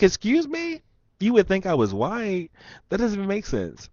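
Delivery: very high, incredulous comeback; indignant disbelief. Retold or imitated. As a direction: act out being taken aback. Acting out his indignant reply.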